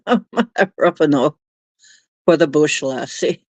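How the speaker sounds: low, lightly hammed-up Aussie voice; Australian accent. Joking to chat about the bush in a mock Australian accent. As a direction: play a rough bushman in a mock Australian accent. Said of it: "That isn't Aussie at all".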